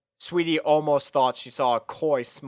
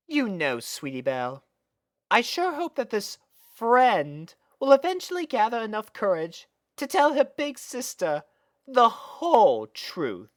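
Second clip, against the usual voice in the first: higher, knowing purr of a hint; sly big sister; 10 semitones higher than usual. Acted. Big sister slyly hinting to little sister, knowing and higher. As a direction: tease her slyly, slowing at the end.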